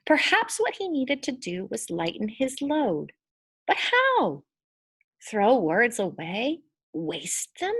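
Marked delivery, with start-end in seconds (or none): 3.7-7.7 dismayed questions. Acted. Selig's anguished inner questions.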